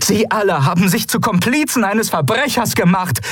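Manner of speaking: determined officer reading out demands; Kalin's voice. Acted. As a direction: speak up with formal, measured resolve. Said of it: "rief Kalin".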